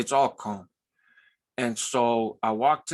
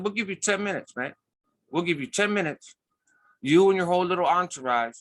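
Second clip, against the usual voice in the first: higher-pitched imitated warning; officers' ultimatum; 6 semitones higher than usual. Officers to a parolee and his group, warning. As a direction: act out a cop laying down terms. Officers give a deadline, retold.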